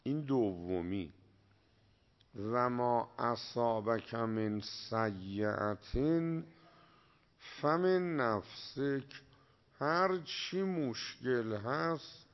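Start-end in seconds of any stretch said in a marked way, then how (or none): 2.4-9.2 slow, measured Arabic recitation; Quran recitation. Acted. Preacher quoting the Quran to his listeners, slow recitation. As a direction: intone the verse slowly like a reciter. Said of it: "این هم حرفای جالبش تو قرآنه".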